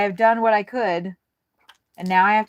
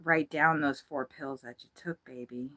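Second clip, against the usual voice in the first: put-on gentle boyfriend; 2 semitones lower, 6 dB quieter than usual. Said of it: "And he said".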